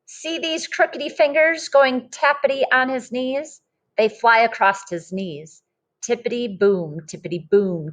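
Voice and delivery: lively storybook read-aloud voice; reading to children. Acted. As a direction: read it like a picture book to a class. Teacher reads picture book aloud.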